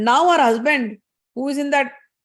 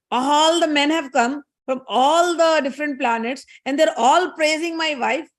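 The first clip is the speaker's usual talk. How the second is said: slow, raised-pitch grievance; mock indignation; 4 semitones higher than usual. Husband resenting praise for his wife, mildly indignant. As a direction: lean on each "all", put out. Voicing Brahma's jealous inner thoughts.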